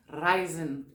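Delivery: "Reisen" with a rolled Italian R. Shown as a demonstration. Teacher showing students clearer pronunciation, rolled Italian R in "Reisen". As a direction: roll the R at the start of "Reisen". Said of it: "o R italiano, pra poder ficar mais clara a minha pronúncia".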